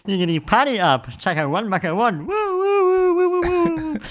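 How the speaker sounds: reggae MC toasting, whooping high; rowdy party animal. Pretend. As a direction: hype the dance like a sound-system MC.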